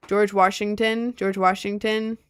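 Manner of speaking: "Washington" said in a Southern way; a touch of Southern on "Washington"; Southern-style Washington. Shown as a demonstration. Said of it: "some words I say more Southerner-y".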